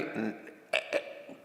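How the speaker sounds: mock speechless stammer in small, quiet sounds; awestruck, tongue-tied. Visitor before the king, imitated as tongue-tied. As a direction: imitate someone too overawed to get a word out. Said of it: "se quedaba tan impresionada que".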